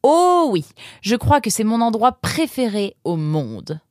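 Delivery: high-pitched, heartfelt enthusiasm; delighted boy. Acted. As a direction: gush with relief at being home. Nemrod happy to be home.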